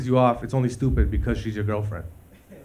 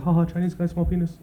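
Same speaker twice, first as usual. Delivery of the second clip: higher, schoolyard ha-ha taunt; mocking jeer; 6 semitones higher than usual. Younger self jeering at a cliche, mock taunt. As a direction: sneer it like a dumb kid. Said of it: "My whole life I was like".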